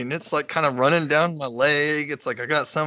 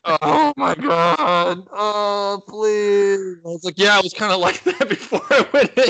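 laughing; 7 semitones higher, 3 dB louder than usual. Real, not acted. Laughing embarrassed retelling.

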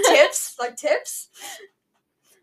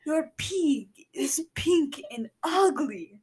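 slow, comic Russian accent; slower than usual. Shown as a demonstration. Co-host's rival take, slow comic Russian accent. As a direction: stretch a mock Russian accent, near laughing. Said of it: "I think the co-host's was better".

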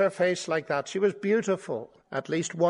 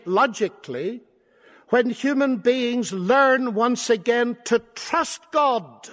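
higher, emphatic pulpit delivery; impassioned preaching; 6 semitones higher, 4 dB louder, slower than usual. Real, not acted. Preacher explaining humanity's way back to trust, emphatic preaching. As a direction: press the point home to the congregation.

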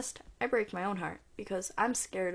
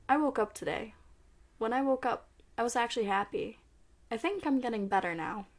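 poem reading. Real, not acted. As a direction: recite it like spoken word. Reads poem Resilience.

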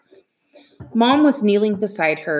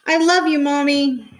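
tearful farewell; 8 semitones higher, 4 dB louder than usual. Acted. Children farewell through tears.

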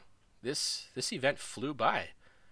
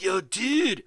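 imitating Griffin; 7 semitones higher, 4 dB louder than usual. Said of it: "That's not what he sounds like".

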